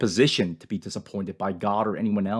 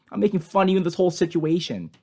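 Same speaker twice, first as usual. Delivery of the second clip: mocking; 4 semitones higher, faster than usual. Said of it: "He mocks God and says basically".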